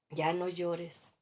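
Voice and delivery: "Ya no llores" muy lento y más fuerte; cliché insensible. Retold or imitated. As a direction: imita a quien manda callar el llanto, arrastrando las palabras. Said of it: "A ver si te identificas". (consejo condescendiente muy lento)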